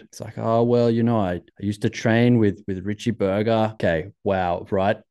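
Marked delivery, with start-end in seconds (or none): 0.4-3.7 lightly imitated Austrian accent; bad Austrian accent. Skier explains who trained him, in a bad Austrian accent. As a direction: attempt a mild Austrian accent. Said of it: "That's a really bad Austrian accent".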